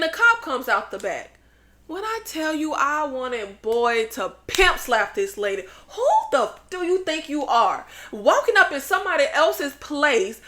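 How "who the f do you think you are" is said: shrieking who the f- up high; high indignant squeal; outraged. Real, not acted. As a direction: voice jumping way up in outrage. Outraged at the cop.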